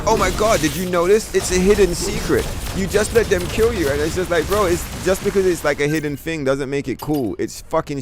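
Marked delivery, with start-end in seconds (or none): 0.0-3.9 high, breathless mock gushing over a secret; mocking excited fan. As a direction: mimic fans squealing with fake wonder, pitched way up. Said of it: "They're like".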